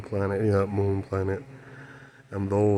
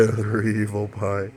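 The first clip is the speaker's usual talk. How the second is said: laughing; slower than usual. Real, not acted. Repeats it laughing.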